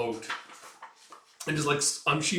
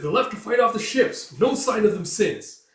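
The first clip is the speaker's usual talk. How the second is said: high, loud worried shout; anxious report; 8 semitones higher, 7 dB louder than usual. Acted. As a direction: report the missing archers. Reporting bad news.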